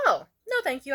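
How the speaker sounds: high, light "oh, no"; polite refusal. Retold or imitated. Turning down the coke offer, high and polite.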